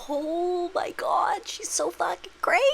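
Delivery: slow, breathy whispered aside; stunned whisper. Real, not acted. Watching the movie scene, slow shocked whisper. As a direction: whisper it like you can't believe your eyes.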